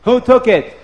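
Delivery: high, loud frantic yell; screaming. Acted. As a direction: shout for the lost getchke. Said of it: "Lavan starts to scream".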